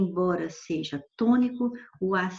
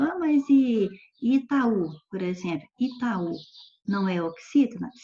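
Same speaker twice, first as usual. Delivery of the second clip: objecting student. Acted. Student challenges teacher with a remembered exception, lightly acted objection. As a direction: raise a mild "but what about" challenge. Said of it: "estiver se lembrando".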